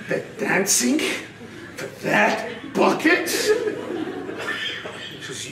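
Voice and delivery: incredulous question through real laughter; words broken up by laughter; laughing while talking. Real, not acted. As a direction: barely get the question out for laughing. Laughing at the punchline.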